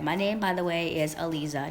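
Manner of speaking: Aliza said as uh-LEE-zuh with a clear z; proper name with a clear z sound; correct pronunciation of Aliza. Shown as a demonstration. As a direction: say Aliza with a buzzing z, stress on LEE. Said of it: "not Eliza".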